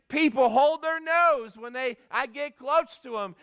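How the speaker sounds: retold complaint, pitched high; imitated high-pitched cry for help; pleading cry. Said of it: "this leper was crying out".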